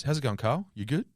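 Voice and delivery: light, offhand greeting; casual. Retold or imitated. Podcaster retelling film agent's greeting in the car, casual. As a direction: toss it off breezily. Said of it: "he just casually says".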